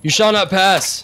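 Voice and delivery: slow, high, grand proclamation; epic wizard voice. Pretend. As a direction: declare it like an ancient wizard blocking a bridge. Quoting film wizard in game.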